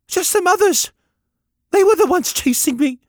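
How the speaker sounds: put-on high, loud small boy, words faltering. A narrator's reading. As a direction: stumble on the protest as a young lad. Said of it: "he faltered".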